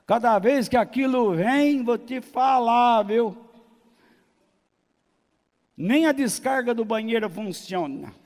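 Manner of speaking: loud, high complaint, easing slightly at the end; hammed-up grumbling about the mother-in-law; exasperated mock rant. Genro reclamando da sogra. (reclamação cômica, alta e indignada)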